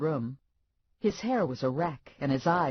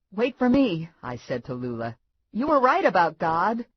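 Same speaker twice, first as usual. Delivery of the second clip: calling out; 5 semitones higher, 7 dB louder than usual. A narrator's reading. Narrator calls after Lula.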